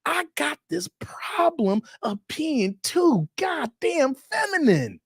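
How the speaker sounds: camp up a guy complaining to Pinball; mock guy's email. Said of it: "Be like".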